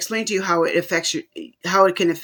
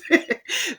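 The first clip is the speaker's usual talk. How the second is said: a quick high burst of laughter; short laugh; 10 semitones higher than usual. Real, not acted. Host laughing at own blackness joke, a quick high laugh.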